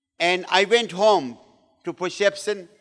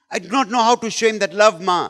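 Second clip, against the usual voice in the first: mildly tearful, pleading repeat; imitated crying confession; 3 semitones higher, 4 dB louder, faster than usual. Wife admitting she cannot show love, imitated tearful plea. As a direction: plead helplessly, lightly acting the tears. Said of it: "She is crying".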